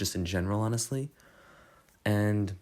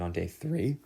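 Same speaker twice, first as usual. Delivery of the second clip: voice crack. Real, not acted. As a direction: voice cracks upward on the word. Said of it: "bad voice crack".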